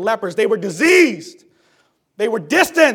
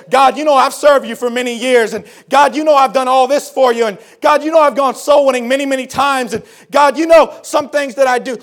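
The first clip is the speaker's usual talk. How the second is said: self-promoting prayer; 4 semitones higher, 6 dB louder than usual. Retold or imitated. Mimics listing credentials to God.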